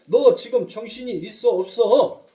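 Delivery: loud, indignant rebuke; acted scolding. Peter rebukes Jesus for his words, acted loud scolding. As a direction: play Peter telling someone off, loudly. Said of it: "그렇게 예수에게 꾸짖으면서".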